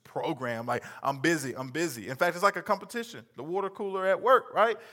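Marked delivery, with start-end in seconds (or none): 1.0-2.1 programmed robot repeating; robot voice stuck on loop. Retold or imitated. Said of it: "like a robot".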